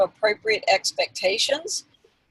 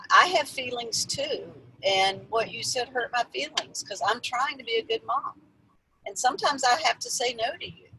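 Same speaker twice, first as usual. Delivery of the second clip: gentle heartfelt talk; 3 semitones higher, 5 dB quieter than usual. Shown as a demonstration. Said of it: "you could have said".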